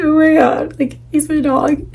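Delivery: high-pitched, lightly whimpered reaction; a touch of whining, retold; mock tearful whine. Owner leaving the crying puppy behind, mock tearful whine.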